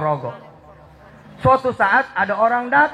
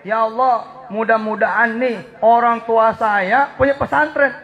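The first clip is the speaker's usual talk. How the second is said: doa untuk orang tua, sedikit lebih hangat; doa yang benar; 3 semitones higher than usual. Shown as a demonstration. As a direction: contoh doa yang tepat. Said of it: "Beda tuh". (doa untuk orang tua dengan khusyuk)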